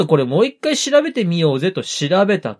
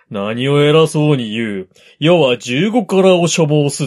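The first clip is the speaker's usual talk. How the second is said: louder, pompous noble tone; haughty lord voice; 2 semitones lower, 4 dB louder than usual. Retold or imitated. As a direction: speak like an arrogant lord. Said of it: "そんな偉そうなこと言うわけがないでしょ".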